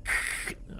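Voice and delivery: mouth-made mic crackle noise; imitated crackle. Showing a friend the mic fault, imitated crackle. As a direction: imitate a crackling, peaking microphone. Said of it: "it's doing that".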